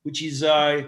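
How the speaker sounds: lightly put-on Dutch accent. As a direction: play a Dutchman introducing himself, Dutch accent. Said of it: "say it in a Dutch accent".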